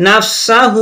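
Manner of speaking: "নাফসাহু" with the final "হু" stretched long; drawn-out ending. Shown as a demonstration. Teacher showing the stretch, final "হু" drawn out. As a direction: hold the last vowel of "নাফসাহু". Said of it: "এখানে এক আলি পরিমাণ টানতে হবে".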